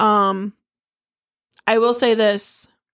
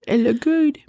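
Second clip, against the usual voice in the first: "it look good" with GOOD lifted high; sigh, then let "good" float up high; higher, rising "good"; high-pitched "good"; 5 semitones higher than usual. Pretend. Repeats the phrase two contrasting ways.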